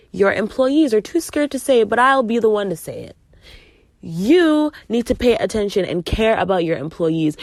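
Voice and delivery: heated but controlled retelling; upset confrontation. Retold or imitated. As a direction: tell the boss off firmly. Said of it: "I was really, really upset".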